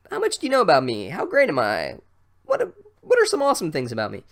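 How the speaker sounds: fast, high, preening voice; mock a self-adoring show-off; vain braggart. Mocking the teacher's quiz, fast and preening.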